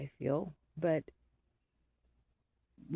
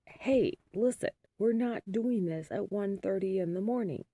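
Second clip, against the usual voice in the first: raised, higher voice to stop the fight; stern call; 4 semitones higher, 4 dB louder than usual. Retold or imitated. Mom stopping the late-night fight, stern raised call. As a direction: snap the kids to attention, firmly. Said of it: "'cause I was like".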